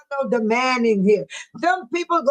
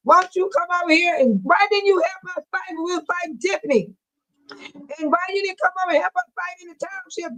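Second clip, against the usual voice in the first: exasperated pleading; 6 semitones higher than usual. Real, not acted. Pleading with Jerry about demands.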